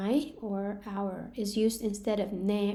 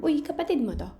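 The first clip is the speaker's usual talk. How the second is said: casual remark to sibling; 5 semitones higher, faster than usual. Shown as a demonstration.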